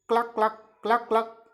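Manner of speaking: short clucks in pairs; demonstrated cluck-cluck; hen cluck. Shown as a demonstration. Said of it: "हैन कैसे बोलती है".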